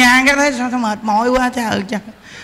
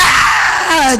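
mock wail; 3 semitones higher than usual. Imitating a woman bursting into tears.

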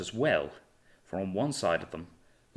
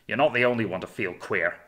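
snapped; 5 dB louder than usual. Acted. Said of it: "snapped Hornblower".

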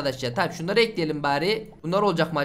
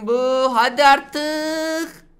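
excited plea; 6 semitones higher, 6 dB louder, much slower than usual. Real, not acted. Begging the last egg to hatch.

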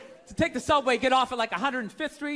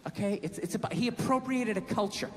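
put-on girlfriend lecturing; 5 semitones lower, 4 dB quieter than usual. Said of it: "She goes".

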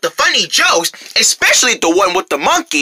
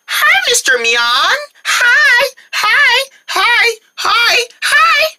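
put-on high, sing-out kid hellos; eager greeting; 14 semitones higher, much slower than usual. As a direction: greet him over-sweetly in a high voice. Kids eagerly greet grumpy neighbor.

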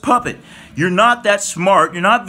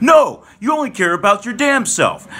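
angry shout; 2 semitones higher than usual. Real, not acted. Angry rant at LeBron.

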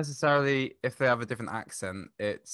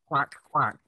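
imitated frog croak, quack-like; Dutch frog noise; 3 semitones higher than usual. Shown as a demonstration. Guest shows how frogs sound in Dutch, imitated croak. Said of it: "for Dutch, it's".

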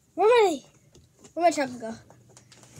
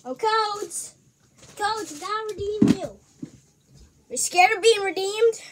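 higher, mock coaxing call; playful calling out; 5 semitones higher than usual. Calls lost codes as if alive.

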